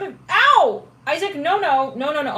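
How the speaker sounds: loud high ow then firm no no; startled scold. Real, not acted. Scolding her puppy Isaac, loud and high. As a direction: stop the puppy from biting.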